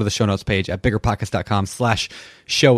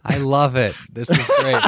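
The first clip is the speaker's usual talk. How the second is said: laughing; 4 semitones higher than usual. Real, not acted. Reacting to gift.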